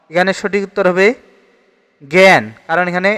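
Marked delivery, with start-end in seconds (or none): 2.0-2.4 "জ্ঞান" with an æ vowel, as gæn; open e pronunciation. Shown as a demonstration. Teacher explains the vowel is not aa, "জ্ঞান" as gæn. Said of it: "এখানে এ উচ্চারণ হবে".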